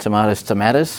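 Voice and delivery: "tomatoes" said two ways, ah and ay; two rival pronunciations of tomatoes. Shown as a demonstration. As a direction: contrast the middle vowel in the two "tomatoes". Jokes about two rival pronunciations.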